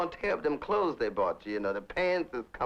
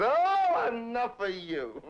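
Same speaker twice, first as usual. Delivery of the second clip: retold defiance; 9 semitones higher, much slower than usual. Standing up to his father.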